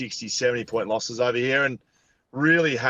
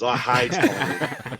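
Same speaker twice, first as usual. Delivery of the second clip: laughing hate; slower than usual. Real, not acted. Footy rival banter, laughing.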